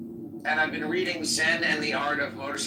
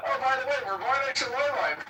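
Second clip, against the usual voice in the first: higher-pitched mock Jewish accent; imitated Jewish-accent greeting; 8 semitones higher, faster than usual. Teasing friend about greeting the boss, mock Jewish accent. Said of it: "You're like".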